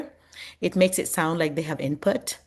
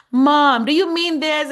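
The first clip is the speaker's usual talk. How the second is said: put-on questioning child; 10 semitones higher, 7 dB louder than usual. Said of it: "they were always like".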